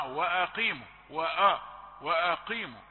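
وأقيموا with the alif pulled heavy before the qaf; wrong heavy alif. Shown as a demonstration. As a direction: demo the wrong thickened وأ. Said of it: "لا، ما ينفعش". (خطأ تفخيم الهمزة في وأقيموا)

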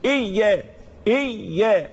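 إيا with the y held long before aa; geminated yy, clearly pressed, in إيا; doubled yaa. Shown as a demonstration. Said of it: "الياء مشددة".

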